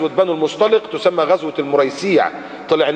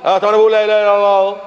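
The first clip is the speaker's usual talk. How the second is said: high, fast indignant protest; mock the fake believer; imitated defensive hypocrite; 5 semitones higher than usual. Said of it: "ويقول لك".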